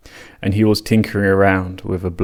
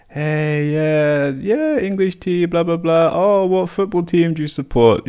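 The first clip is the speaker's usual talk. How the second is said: high, chummy mock chatter; super friendly small talk; 9 semitones higher than usual. Chatting with the cops, high and overfriendly. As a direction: play it extra matey. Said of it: "we're, like, super friendly".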